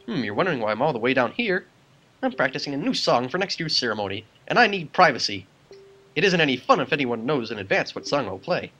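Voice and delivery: a hint of a surprised little musician; lilting, lightly acted game character; lightly voiced Makar, chatty. Little musician greets Jack in his hiding place, mildly surprised.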